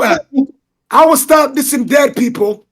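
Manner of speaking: ordinary talk, nothing marked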